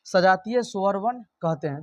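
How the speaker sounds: सजातीय स्वर वर्ण कहते हैं said slowly, word by word, for students to note down; slow dictation. Shown as a demonstration. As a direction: spell out the definition slowly like a teacher dictating. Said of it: "उसे क्या कहेंगे?".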